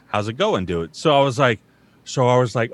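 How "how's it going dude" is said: catchphrase. Retold or imitated. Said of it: "his catchphrase is".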